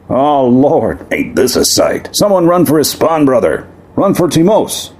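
high, urgent exclamation; shocked outcry. Acted. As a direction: call for help in horror. Jorgensen cries out at the scene.

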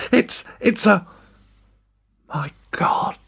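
stammering then whispered awe; breathless whisper of awe; awed gasp. Acted. Awed at the monster.

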